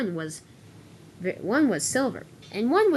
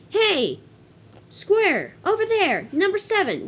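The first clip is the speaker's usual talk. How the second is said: high, raised call in short bursts; brash calling out, pitched up high; rude hailing; 9 semitones higher, 4 dB louder, slower than usual. Acted. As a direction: holler rudely to get someone's attention. Rude trucks hail Toby.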